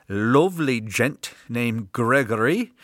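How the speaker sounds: lightly put-on London accent; mock London accent. Host introducing a London listener, mock London accent. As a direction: slip into a playful London accent. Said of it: "about that accent I just did".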